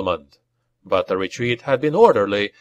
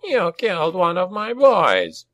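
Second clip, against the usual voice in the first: high, raspy goblin shaman; aggrieved goblin shaman voice; raspy accusation; 7 semitones higher than usual. A narrator's reading. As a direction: rasp the accusation in a raised goblin pitch. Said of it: "rasped the shaman".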